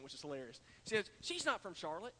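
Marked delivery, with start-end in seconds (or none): 1.2-2.1 lightly imitated Gaffney accent. Preacher re-enacting the church lady's remark, light Gaffney accent. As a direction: quote her with a hint of Gaffney accent. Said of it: "said it in her Gaffney accent".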